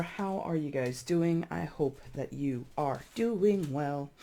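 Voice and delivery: oddly drawn-out, slow greeting; weird delivery. Real, not acted. Tarot reader greeting Libra viewers in an odd slow way. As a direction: stretch the hello out strangely, half-joking. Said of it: "I said that in such a weird way".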